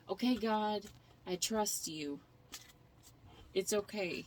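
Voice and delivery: a hint of a sweet, cute TikTok voice. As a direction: lightly mimic the cute TikTok surrender voice. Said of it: "that cute little TikTok voice".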